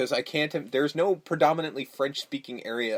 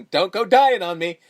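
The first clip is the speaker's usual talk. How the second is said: raised, slightly higher quoted plea; pitched-up movie-quote plea; mock plea; 3 semitones higher, 4 dB louder than usual. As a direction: act out a mildly urgent plea. Acting out film quote, pleading.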